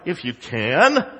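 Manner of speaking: mildly incredulous echo with rising end; sarcastic. Retold or imitated. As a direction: quote it back as a sarcastic question. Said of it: "Jesus was so sarcastic in".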